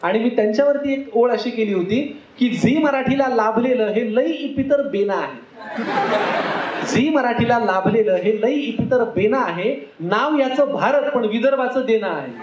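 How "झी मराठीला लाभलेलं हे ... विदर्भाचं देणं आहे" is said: measured, rhythmic couplet delivery; stagey verse recital, building to the rhyme; comic verse recitation. Acted. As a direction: recite a teasing tribute rhyme for the crowd. Recites his verse on a friend.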